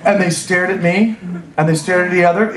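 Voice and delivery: ordinary delivery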